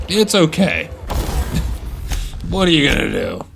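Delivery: bright high ad-jingle read of the slogan; chirpy slogan voice. Retold or imitated. Quoting the game's slogans in a high, chirpy advert voice. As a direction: pitch it up like a cheery corporate tagline. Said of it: "I love that all the slogans in this game are, like".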